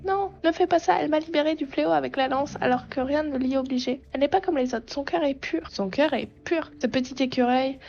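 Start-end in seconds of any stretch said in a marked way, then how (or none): 0.1-6.7 pitched-up creature pleading for her; higher, earnest little voice. Acted. Creature defends the girl to the witch, high and earnest. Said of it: "j'en ai marre de faire une voix aiguë".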